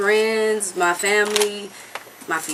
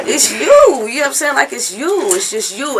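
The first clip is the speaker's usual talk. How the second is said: high-pitched, helpless fan gushing; retold starstruck gushing; 8 semitones higher, 5 dB louder than usual. Singer explains her tears to her idol, starstruck gushing. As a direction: act out being overcome by your idol.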